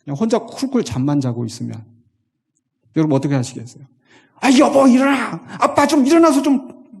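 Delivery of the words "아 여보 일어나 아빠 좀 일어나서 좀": high, loud frantic wake-up call; wife shouting at a husband asleep during danger; urgent wife waking husband. Pretend. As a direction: shake the sleeping husband awake, panicked. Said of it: "이렇게 하지 않겠어요?".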